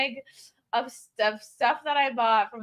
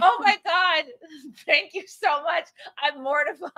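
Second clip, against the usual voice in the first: mortified; 3 semitones higher than usual. Retold or imitated. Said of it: "I said".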